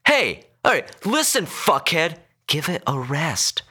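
high-pitched, exasperated scolding; irritated outburst. A narrator's reading. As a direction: tell him off, losing patience. Passenger swearing at silent driver.

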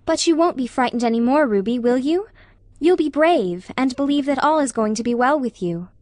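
lightly voiced friend giving reassurance; encouraging Anne. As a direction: coax her gently toward courage. Narrator voices Anne encouraging Ruby.

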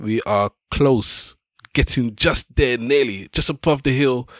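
upbeat host welcome; podcast intro. Acted. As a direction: hype up the show opening.

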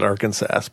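Arkansas said to rhyme with Kansas; spelling pronunciation. Shown as a demonstration. Host doubting anybody says it so, Arkansas pronounced as spelled. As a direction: sound out Arkansas as written, final S heard. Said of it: "that's how it's spelled".

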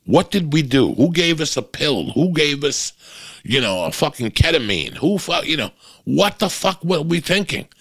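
high, disbelieving questions at his past self; incredulous self-questioning. Retold or imitated. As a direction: ask it like you can't believe what you did. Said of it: "I'm like".

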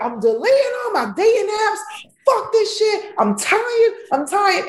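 high, fed-up venting; exasperated outburst. Retold or imitated. Fed-up comedian swearing off dating apps, high exasperated outburst. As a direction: fling it out, done with dating. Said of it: "And I was like".

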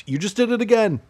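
high, loud, put-on outraged voice; a hammed-up high yell of exasperation; mock yelling. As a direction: squeal it like you caught them red-handed. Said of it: "when I was yelling at you".

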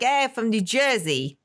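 lightly mocked New Jersey accent; a quick taste of New Jersey accent. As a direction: toss off a caricature Jersey greeting. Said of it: "they don't talk like".

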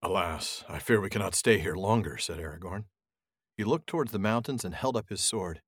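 measured, grave audiobook reading; unhurried storyteller with gentle character voices; story narration. A narrator's reading. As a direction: read it like a solemn fantasy audiobook. Reads the chapter aloud.

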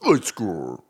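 low announcer voice calling the segment; deep announcer call. Acted. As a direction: boom out the title. Show jingle chant.

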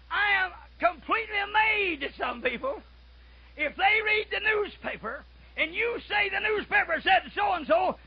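high-pitched, slowed preaching; preaching at full force. Acted. Preacher scolding people who read the newspaper, fervent. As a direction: build the complaint with force.

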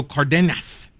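Cardenas with the middle syllable leaned on, loose ending; mispronounced Cardenas. Real, not acted. Host misreading Cardenas in a list of names, wrong accent. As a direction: slip on the name Cardenas, middle syllable weighted. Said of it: "Or, sorry, Cardenas".

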